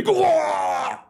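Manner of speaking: high falsetto cry fading to a weak squeak; mock shocked wail. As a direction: act out shock, voice dying away as you collapse. Stabbed gunman reacts in shock.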